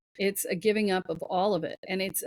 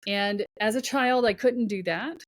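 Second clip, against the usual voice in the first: louder and higher, anger growing line by line; building indignation; 4 semitones higher, 3 dB louder than usual. Pretend. Voicing a fed-up inner self to the host, rising anger. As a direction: let the frustration swell until it's fed up.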